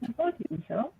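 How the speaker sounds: far from mic. Real, not acted. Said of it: "You're really low and you're breaking up".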